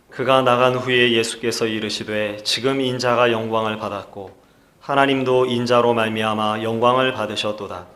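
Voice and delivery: measured, even-toned Bible reading; scripture reading. Acted. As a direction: read the verses out formally for the congregation. Leads responsive scripture reading. (또박또박 성경을 봉독하는 어조)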